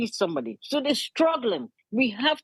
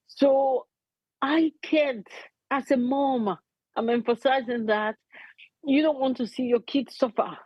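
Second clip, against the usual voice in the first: emotional plea in broken phrases; real, heartfelt appeal; 3 semitones higher than usual. Real, not acted. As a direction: plead as an upset mother, halting between phrases. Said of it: "I'm sorry if I'm being so emotional".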